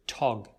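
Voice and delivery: tog said alone, slow and clear; tog sound. Shown as a demonstration. Teacher isolating a syllable for students, slow. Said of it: "we also pronounce the second syllable here".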